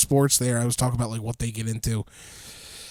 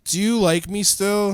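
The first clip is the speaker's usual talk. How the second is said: imitating; 4 semitones higher than usual. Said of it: "Rob did Snow Angels and said".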